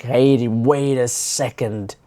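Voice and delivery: drawn-out mock objection; slow warning. Other person cutting off the complainer, slow warning. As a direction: stop them slowly, stretching the words.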